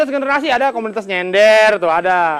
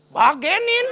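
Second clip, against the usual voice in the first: curt Bekasi dismissal; 8 semitones higher, much slower than usual. Shown as a demonstration. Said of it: "Kalau di Bekasi apa?".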